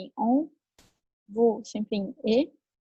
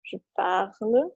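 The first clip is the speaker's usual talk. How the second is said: "Je parle" said slowly and clearly, every sound spaced out; slow model pronunciation; slower than usual. Shown as a demonstration. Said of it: "então, fica como?". ("Je parle" dito devagar e claramente)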